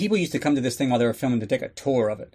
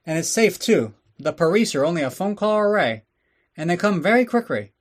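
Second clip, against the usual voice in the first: mock Asian accent ad; 5 semitones higher, 3 dB louder than usual. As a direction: sell the store like a cartoonish shopkeeper in a stereotyped Asian accent. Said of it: "let's go take a little break for the advertisements".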